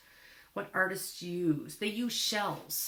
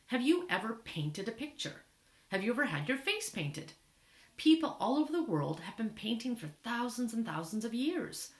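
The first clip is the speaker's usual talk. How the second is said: lively read-aloud, questions lifted higher; reading to children; 4 semitones higher than usual. Acted. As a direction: read an information book out to young listeners. Reads book aloud to children.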